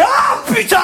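very high, drawn-out shout; whole-platform outcry. Retold or imitated. Commuters reacting on the metro platform, high shouted groan. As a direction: cry out like a crowd of exasperated commuters. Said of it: "t'as tout le quai qui fait".

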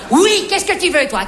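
brusque, impatient retort; irritated snap. Acted. Shop boss interrupted by a customer, irritated snap. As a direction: turn on the interrupter curtly. Snaps at customer, then corrects himself.

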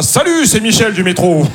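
high, slow, drawn-out hello to camera; video greeting guy. Retold or imitated. Metro driver filmed as proof, drawn-out video greeting. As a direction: imitate an awkward man introducing himself on video. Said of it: "des vidéos de mecs comme ça".

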